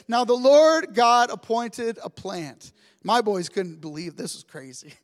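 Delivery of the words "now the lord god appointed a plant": slow scripture reading. Shown as a demonstration. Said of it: "it says this".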